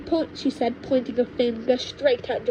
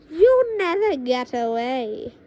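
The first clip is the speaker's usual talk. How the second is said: louder, slow final warning; witch grandma threat; 5 dB louder than usual. Acted. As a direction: seal his fate coldly. Witch calling after fleeing boy.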